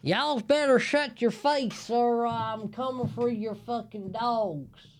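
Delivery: high put-on threatening voice; mock threat. Man mock-threatens whoever made the noise, high put-on voice.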